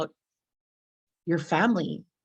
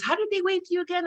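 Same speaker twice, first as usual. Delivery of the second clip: puzzled question; 10 semitones higher, faster than usual. Retold or imitated. Bus driver asking again.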